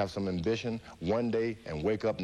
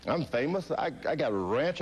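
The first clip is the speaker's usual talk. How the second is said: rising panic; 5 semitones higher than usual. Retold or imitated. Fighter pleading with the voice, rising panic. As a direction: pitch climbing higher as he pleads. Retelling his panicked plea.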